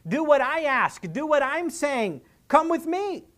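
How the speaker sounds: telling Jesus to hurry, not asking; a desperate father giving Jesus directions; demanding. Retold or imitated. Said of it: "in essence, he's saying".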